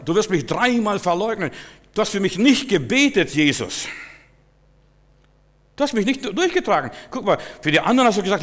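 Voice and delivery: höher und lauter, klagend und anklagend; Jesus alles Gekränkte entgegenschleudern; vorwurfsvoller Petrus. Acted. Peter voiced reproaching Jesus. (Petrus zu Jesus, laut und vorwurfsvoll klagend)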